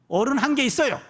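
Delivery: a hint of a little child's earnest reply; small child answering. Daughter answers caller's question about grown-ups, lightly imitated child. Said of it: "거기 어른 계시니".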